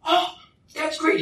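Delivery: very high, drawn-out gushing; mock delight. Friend butting in beside the reluctant speaker, delighted. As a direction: gush as the overkeen friend.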